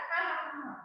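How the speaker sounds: soft spoken ha ha ha; demo laugh. Shown as a demonstration. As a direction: read the laugh like a chat message. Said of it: "Say laugh".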